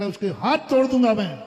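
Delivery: loud, raging threat; father yelling in a rage; furious threat. Retold or imitated. Angry father threatening the daughter-in-law, loud and furious. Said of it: "गालियां देते हुए बाप बेटे".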